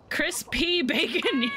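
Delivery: high, slow name through a laugh. Real, not acted. Reading a funny character name, high slow laugh.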